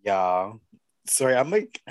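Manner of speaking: talking while eating boba; words round a mouthful of boba; mouth full. Real, not acted. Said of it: "Eating boba".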